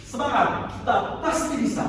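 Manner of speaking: "pasti" leaned on a little; stress example. Shown as a demonstration. Teacher giving the class a stress example. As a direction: push the word "pasti". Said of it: "Ya, contoh".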